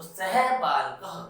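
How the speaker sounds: सह बालकः said slowly, each syllable clear; slow Sanskrit demo. Shown as a demonstration. Teacher modelling Sanskrit for the children, slow and clear. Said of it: "Sanskrit में".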